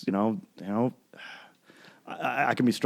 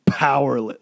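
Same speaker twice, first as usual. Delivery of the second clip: louder, higher burst on one word; mock scream; 4 semitones higher, 6 dB louder than usual. Showing co-host how the song ends, mock scream. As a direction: imitate a singer's scream, held back. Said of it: "he's just screaming".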